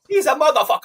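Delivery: lightly voiced Hulk Hogan. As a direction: spit it out like a wrestler. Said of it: "he sounds like Hulk Hogan".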